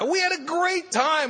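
laughing through a fond recollection; laughing delight. Real, not acted. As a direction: bubble over with the memory. Fond memory, laughing high.

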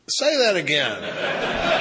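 slow, loud imitated sponsor; stunned demand. Sponsor reacting to the speaker's blunt question, slow loud demand. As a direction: draw it out loudly as a punchline.

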